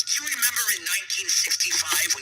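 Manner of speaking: lightly voiced mob cousin; Georgie reminiscing. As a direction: play the cousin's proud memory.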